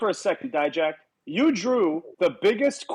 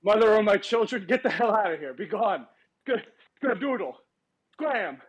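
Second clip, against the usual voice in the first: wrestling promo. Acted. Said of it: "cutting a promo on children".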